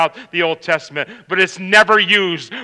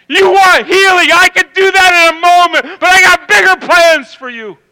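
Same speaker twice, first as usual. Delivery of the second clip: louder, higher preaching of God's promise; 9 semitones higher, 7 dB louder than usual. Acted. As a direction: promise the crowd a miracle.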